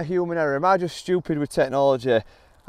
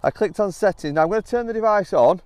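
out of breath; 4 semitones higher than usual. Real, not acted. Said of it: "Sorry if I'm a bit out of breath here".

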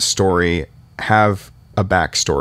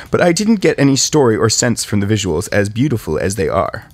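nerdy technical voice. Retold or imitated. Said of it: "in an overly technical, nerdy voice".

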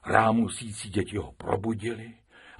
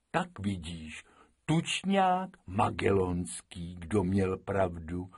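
reproving; 4 semitones lower, slower than usual. Acted. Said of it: "pokáralý pan učitel".

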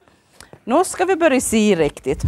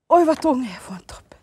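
breathy whisper while straining to lift; 3 semitones higher, faster than usual. Acted. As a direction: whisper as if the box is heavy. (viskar medan han lyfter något tungt)

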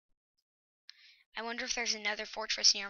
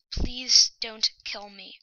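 panicked plea; 4 dB louder, much slower than usual. Real, not acted. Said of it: "I am panicking so bad".

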